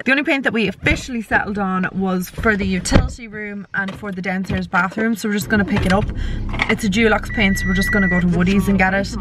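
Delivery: slurred words from a numb mouth. Real, not acted. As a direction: talk like your cheek is numb. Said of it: "Sorry, I'm talking really weird".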